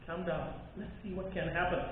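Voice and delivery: softly retold reassurance; hushed, calming someone upset; soothing. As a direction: settle them gently, keeping it very soft. Soothing a crying stranger.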